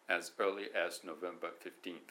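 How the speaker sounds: "As early as November fifteenth" in stiff separate words like a machine; robot-like. Shown as a demonstration. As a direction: read it like a stiff speech machine. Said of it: "機械が喋ってるみたいですよね".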